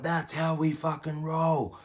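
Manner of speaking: high, slow, mocking braggart voice; gloating show-off. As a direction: ham up a guy celebrating like a fool. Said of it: "starts jumping up and down going".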